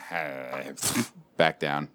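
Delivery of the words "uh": low, soft sleepy grunt; barely-awake mumbled noise; groggy groan. Retold or imitated. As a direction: groan faintly as if half-awake. Imitates sleepy half-rise.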